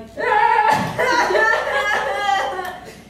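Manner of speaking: loud, high mock bawling; exaggerated wailing cry; uncontrollable crying. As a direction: bawl helplessly, hammed up. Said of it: "I just start crying, like, uncontrollably".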